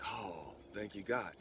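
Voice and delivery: hushed, breathy sigh of thanks to God; relieved thanks. Retold or imitated. Widower thanking God that the piece is there, relieved hush. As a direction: let relief out in a whispered exhale.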